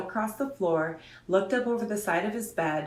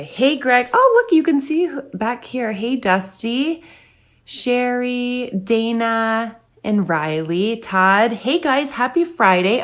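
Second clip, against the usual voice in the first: excited greetings; 6 semitones higher, 9 dB louder, slower than usual. Real, not acted. Calling greetings to viewers.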